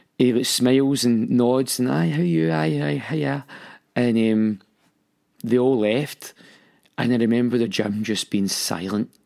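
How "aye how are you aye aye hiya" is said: put-on breezy, fake cheerful tone. Retelling greeting the mums leaving a class: imitating own fake cheerfulness. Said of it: "just putting on this fakeness".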